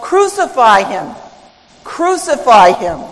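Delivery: restrained imitation of a chanting crowd; retold crowd shout. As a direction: punch it out as a half-shouted demand. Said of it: "which continues to shout".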